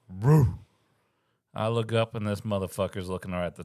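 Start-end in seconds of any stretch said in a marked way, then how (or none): 0.1-0.6 short, punched dog bark noise; imitated dog woof. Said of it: "all of a sudden you hear".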